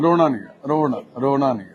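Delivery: softly soothing; gentle consoling. Real, not acted. Helper telling weeping old man not to cry, gentle. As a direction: quietly coax someone to stop crying.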